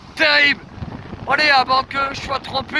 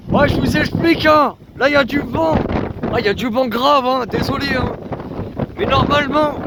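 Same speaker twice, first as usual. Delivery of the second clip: raised voice against the wind; shouting over wind; 4 semitones higher than usual. Real, not acted. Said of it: "j'essaye de crier très fort".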